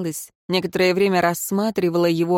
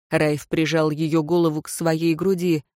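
ordinary delivery, nothing marked

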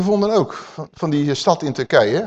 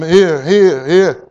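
calling out; 6 dB louder, much slower than usual. Retold or imitated. The woman calls after him.

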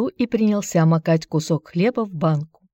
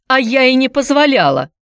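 higher, louder cry of protest; shouting; 8 semitones higher, 5 dB louder than usual. A narrator's reading. Mother shouting back at her partner about the son, loud. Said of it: "закричала женщина".

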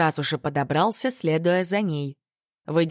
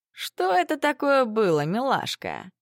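high, mocking bully voice; scowling bully; 7 semitones higher than usual. A narrator's reading. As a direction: sneer it like a school bully. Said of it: "нахмурившись, спросил Илиар".

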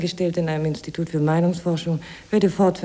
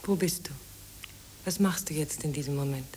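breathy whisper to a distant lover; 9 dB quieter than usual. Acted. Maria longing for Josef across the city, whispering. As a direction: whisper it as if he could hear you.

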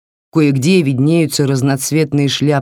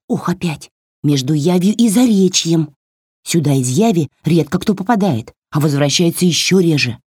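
scolding doll voice; 2 semitones higher than usual. Acted. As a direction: scold like a cheeky tiny doll. Doll explains. (высокий бранчливый голосок куклы)

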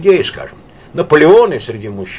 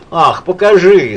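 slow, louder, drawn-out call; repeating her call, slower and louder; called out again; 5 semitones higher, 6 dB louder, slower than usual. A narrator's reading. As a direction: drag the plea out, insisting. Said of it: "снова крикнула она".

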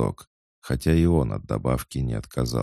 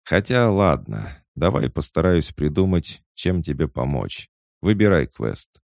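raised, emphatic offer of help; lightly voiced cat, relenting; 4 semitones higher, 4 dB louder than usual. Talking cat agrees to help the boy, lightly teasing. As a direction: give in with a lilting, mildly teasing air.

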